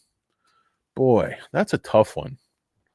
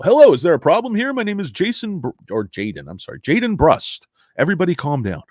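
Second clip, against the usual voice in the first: higher, quick raspy fixer; raspy repairman voice; 5 semitones higher than usual. Pretend. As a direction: barge in with a smoker's rasp. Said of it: "his voice that I'm doing".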